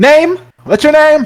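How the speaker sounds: very high, very loud shouting. Voicing a character who yells a question at strangers: yelling in character. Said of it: "Coda yells".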